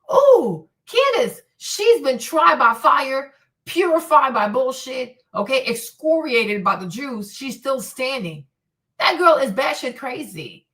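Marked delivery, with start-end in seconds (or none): 0.1-8.4 loud, slow sermon-style praise; hammed-up revival preacher cadence; mock preaching. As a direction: preach her glory like a pulpit tribute. Hyping Candace like a sermon.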